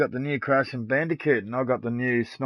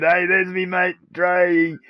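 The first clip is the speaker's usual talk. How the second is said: higher, louder happy call to a friend; excited greeting; 6 semitones higher, 8 dB louder, slower than usual. Retold or imitated. Streamer greeting his friend Dre coming online, excited call. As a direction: hail your mate as he shows up. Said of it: "I said".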